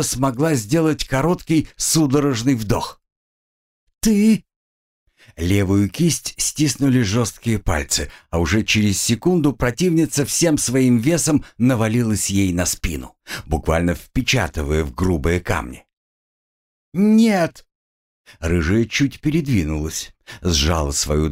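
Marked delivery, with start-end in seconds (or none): 4.0-4.4 high, loud startled cry; shocked cry, high and loud; shocked gasp. Acted. Girl gasps under attack. 16.9-17.6 high, loud panicked no; pinned down, she cries no; desperate cry. Acted. Girl pinned to stones.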